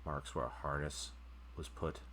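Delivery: game master scene setting. Acted. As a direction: let each image hang before the next.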